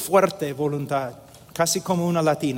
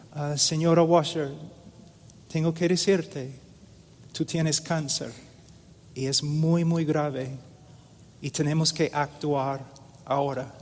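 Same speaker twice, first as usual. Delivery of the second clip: médico dando malas noticias; 7 dB quieter than usual. Retold or imitated. Doctor breaks grave news gently.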